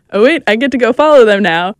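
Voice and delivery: loud, re-enacted burst of excitement; excited realization. Reporter realizing she follows the race, excited. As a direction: blurt it out as a happy sudden realization.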